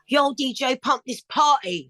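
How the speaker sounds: lightly voiced hype call; a touch of a kid MC hyping the crowd; son's MC shout. Mother imitating her son's stage call, mild hype. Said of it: "my son Cuba doing the".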